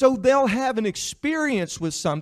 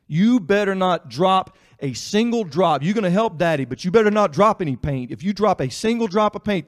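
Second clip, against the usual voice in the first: loud, stern threatening parent; stern warning; 7 dB louder than usual. Retold or imitated. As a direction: warn a child harshly. Or were you.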